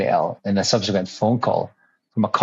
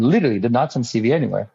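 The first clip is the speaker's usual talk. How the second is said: usual speaking voice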